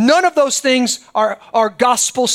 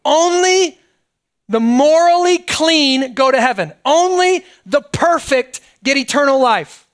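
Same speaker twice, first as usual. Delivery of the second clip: "Only" hit hard each time, slow and deliberate; stress on only; slower than usual. Shown as a demonstration. Pastor states the blunt rule to his congregation, "Only" stressed. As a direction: land every "Only" like a verdict. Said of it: "I'm just gonna say it like this".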